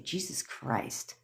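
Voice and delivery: whispered, slow, lovestruck sigh of the words; breathy whisper. Pretend. Girl swooning over his sweet texts, slow whisper. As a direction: whisper it like you're overwhelmed with love.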